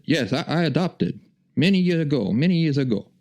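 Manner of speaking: high mock Asian accent; Roger's Asian accent. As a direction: imitate a friend answering in a heavy Asian accent. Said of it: "because he's still got the accent".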